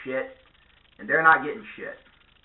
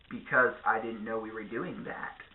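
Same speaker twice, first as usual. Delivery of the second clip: much softer, low confused reply; deadpan mumble; 5 semitones lower, 8 dB quieter than usual. Retold or imitated. Comedian as the guy, muttering low and soft. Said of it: "they're like".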